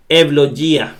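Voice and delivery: "eulogía" said ev-lo-YÍ-a, gamma as Y; Greek word demonstration. Shown as a demonstration. Teacher reads the word out for learners, demonstrating "eulogía". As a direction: model "eulogía" with EV at the start and stress on the í. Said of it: "la gamma es como Y".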